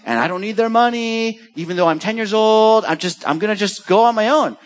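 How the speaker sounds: mild mock whiny defiance; rebellious child voice. Retelling a rebellious child's words.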